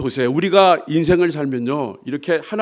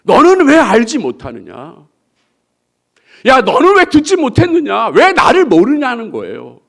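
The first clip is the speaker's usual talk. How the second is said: God rebuking; 3 semitones higher, 5 dB louder than usual. Acted. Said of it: "하나님이 말하는 거예요".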